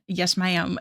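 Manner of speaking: put-on light country accent, ma'am stretched to "my-am"; a hint of a country drawl on Yes, ma'am. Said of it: "in, like, a country accent".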